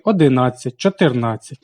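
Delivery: одинадцять, чотирнадцять with stress on the syllable НА. Shown as a demonstration. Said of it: "мають наголос на колишньому прийменникові". (наголос на НА: одинадцять, чотирнадцять)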